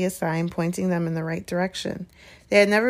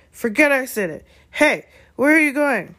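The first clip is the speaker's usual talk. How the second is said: higher, louder flustered call; alarmed calling; 7 semitones higher, 5 dB louder than usual. Acted. Hagrid calls after the fleeing children, flustered.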